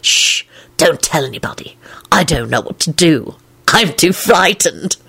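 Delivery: unvoiced, hushed mock fear; mock frightened whisper. A narrator's reading. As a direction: whisper like a scared conspirator.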